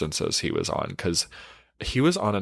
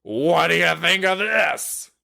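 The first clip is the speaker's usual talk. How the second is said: mock proud guy; 9 semitones higher, 3 dB louder than usual. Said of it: "and is like".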